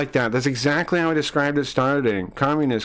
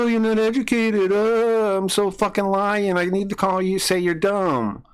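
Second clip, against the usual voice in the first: mock crying whine; 3 semitones higher than usual. Streamer mocks chatter's argument in whiny crybaby voice. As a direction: parody the opponent as a crybaby. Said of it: "cry and go".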